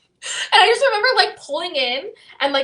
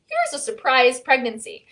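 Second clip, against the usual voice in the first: higher, mocking voice of God with a tearful edge; teasing divine sarcasm, pitched up; sarcastic God; 6 semitones higher than usual. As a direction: play God handing out a cruel joke. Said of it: "God was like".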